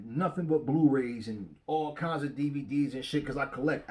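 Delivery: ordinary talk, nothing marked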